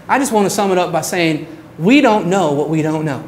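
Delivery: put-on fast, light Southern accent for the professor's closing line. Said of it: "t-, a Southern accent".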